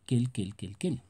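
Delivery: "quel" said as /kel/ each time, unchanged for every form; same quel sound. Shown as a demonstration. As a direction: repeat "quel" four times, always /kel/, showing all forms sound alike. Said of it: "La pronunciación va a ser igual para todos". ("quel" pronunciado siempre /kel/, igual en todas sus formas)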